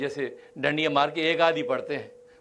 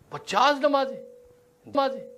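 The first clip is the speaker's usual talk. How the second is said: astonished; 7 semitones higher than usual. Acted. Moses astonished at fifty prayers.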